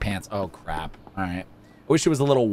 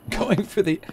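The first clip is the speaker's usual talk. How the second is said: high, agitated insistence building to a cry; freaking out; 6 semitones higher than usual. Real, not acted. Streamer defending the chair to a customer, freaking out. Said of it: "I know I'm freaking out a lot".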